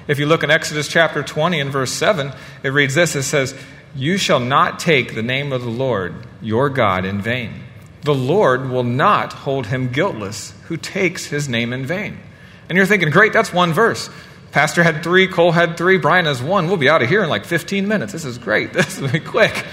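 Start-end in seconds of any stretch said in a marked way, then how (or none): 3.9-12.2 slow, measured Bible verse reading; scripture reading. A narrator's reading. 13.1-19.6 mock delight. Voicing congregation's pleased thought.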